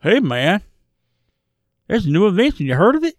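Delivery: a hint of a cheesy heroine, rising at the end; lightly hammed-up corny pitch, lifting on the question; mock character voice. Co-host mocking the heroine's line again, lightly hammed. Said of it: "I don't know why she's talking like this".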